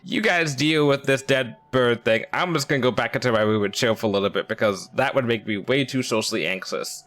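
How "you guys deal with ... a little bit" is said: nervous excuse. Retold or imitated. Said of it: "I'd be like".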